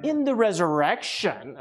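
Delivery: slow, sneering mock question. Preacher mocks the Sadducees' trap question, sneering. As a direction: drawl it out with a sneer. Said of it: "a little bit of a sneer in their question".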